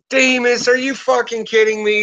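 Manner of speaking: high exasperated buddy voice; imitating exasperated cop. Cop friend at the door, high exasperated disbelief. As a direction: whine it like a cop friend fed up. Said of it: "He's like".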